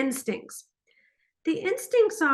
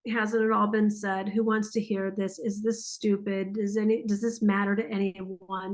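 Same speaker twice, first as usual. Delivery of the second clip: lightly acted wounded self-doubt, a little lower; injured voice; 3 semitones lower than usual. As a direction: doubt yourself in a subdued, lower voice. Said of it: "the injured voice".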